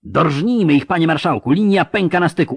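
high, loud, fervent urging; rousing battle shout. Acted. Officer urging the marshal into battle, excited shout. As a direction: press the commander to attack.

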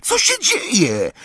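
high, drawn-out worried call. A narrator's reading. Ron calling through the junk wall, calling out. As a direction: call the question out slowly, high. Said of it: "zawołał ponownie Ron".

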